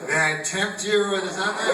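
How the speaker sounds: lightly voiced tempting waiter; seductive dessert waiter. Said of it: "the guy talks all different".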